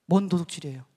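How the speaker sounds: retold challenge with a punch; argumentative protest. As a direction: push back on the accusation. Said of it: "막 따졌어요".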